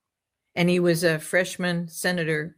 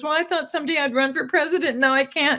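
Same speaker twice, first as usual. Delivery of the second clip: higher and fast, a lightly voiced young woman; girl student's voice; 7 semitones higher than usual. Joke student telling the professor, lightly voiced higher girlish tone. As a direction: quote the disappointed student in a lifted girlish voice. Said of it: "And she goes".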